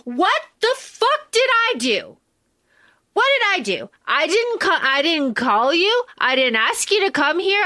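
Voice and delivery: high, exasperated disbelief; indignant protest. Retold or imitated. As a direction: plead your innocence, high and incredulous.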